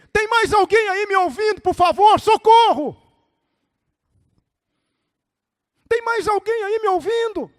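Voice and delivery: high, loud holler for anyone else; hammed-up panicked cry; comic desperate calling. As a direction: yell past God for a different rescuer. Man shouts for another rescuer.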